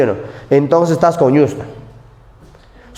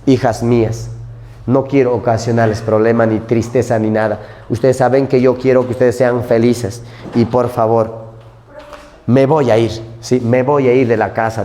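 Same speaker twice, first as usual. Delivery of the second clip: lightly voiced sad father; 4 semitones lower than usual. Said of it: "le dice".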